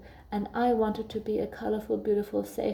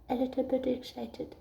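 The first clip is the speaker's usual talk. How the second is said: put-on soft little-girl voice, softer; small child voice; 3 semitones higher, 5 dB quieter than usual. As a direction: answer shyly as a little girl. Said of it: "she was like".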